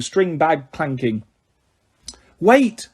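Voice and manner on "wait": higher, calling after her; shout. A narrator's reading. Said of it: "Harry shouted after her".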